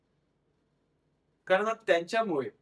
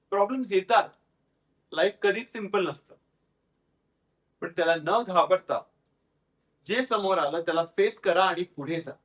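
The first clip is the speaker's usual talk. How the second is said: louder, emphatic motivational delivery; quoting mother's advice; 3 semitones higher, 4 dB louder than usual. Retold or imitated. Daughter retelling how mother said face problems, firmly emphatic. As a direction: drive each phrase home as a mother's lesson. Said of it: "ती म्हणायची की".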